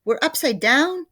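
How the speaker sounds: very high, loud panicked scream. A narrator's reading. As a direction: scream in terror. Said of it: "screamed Missus Twit".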